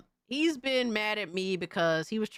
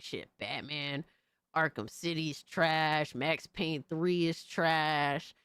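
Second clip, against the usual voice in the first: mocking quote; 3 semitones lower, 4 dB quieter, slower than usual. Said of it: "he's saying shit like".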